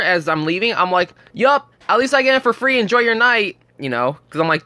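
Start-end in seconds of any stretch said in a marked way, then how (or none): 1.3-3.6 high-pitched, mock-pleasant send-off; retold taunting comeback. Guard sending off the kids he turned away, taunting. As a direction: lightly needle them in a higher voice.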